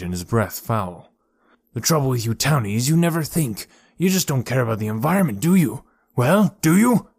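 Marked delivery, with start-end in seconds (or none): 1.7-7.1 menacing. A narrator's reading. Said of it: "menacingly, contorted with rage".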